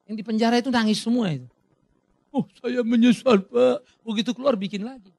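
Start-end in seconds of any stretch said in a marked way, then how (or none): 2.3-3.8 slow, whiny mock remorse from a convict; repentant prisoner. Preacher mimics a prisoner claiming regret, slow and whiny. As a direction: drag it out like a sorry inmate.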